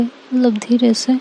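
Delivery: plain reading voice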